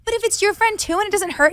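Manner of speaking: high, pleading little voice; coaxing plea. Retold or imitated. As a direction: wheedle him into it. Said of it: "I was like".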